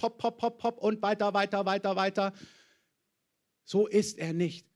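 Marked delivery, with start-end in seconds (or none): 0.0-2.3 pushy coach chanting hopp hopp, lightly done; mock pep-talk chant; mock motivation coach. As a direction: drive them on like a hurried coach. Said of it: "Gott ist nicht dein Motivationscoach".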